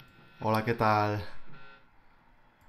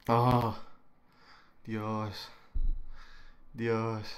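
moaning; 5 dB quieter, much slower than usual. Real, not acted. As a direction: breathe out a soft groaning "Dios". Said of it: "estoy aquí gimiendo y diciendo, "Dios, Dios".

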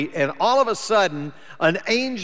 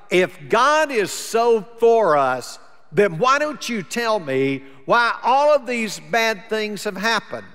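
with an attitude; 2 semitones higher than usual. Shown as a demonstration. Gideon challenging God over his troubles, mild indignant attitude. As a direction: throw the question back at God, a bit indignant. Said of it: "did he say it in an attitude of".

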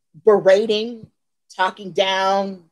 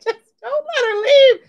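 imitating Tony. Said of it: "Tony is so sweet".

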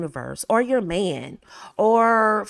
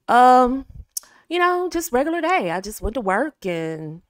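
dull, bored; 4 semitones higher than usual. Shown as a demonstration. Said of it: "This is what most women will do".

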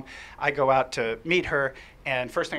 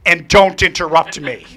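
loud, slow, half-laughing mock order; laughing requote; 11 dB louder, slower than usual. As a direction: repeat the kid's rule, amused.

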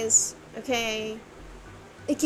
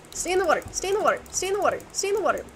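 panicked yelling; 7 semitones higher, much faster than usual. Real, not acted. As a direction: yell it at the mob. Yelling at mob.

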